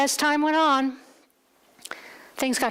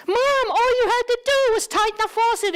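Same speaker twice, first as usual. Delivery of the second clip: exasperated; 11 semitones higher, 4 dB louder than usual. Retold or imitated. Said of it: "I said".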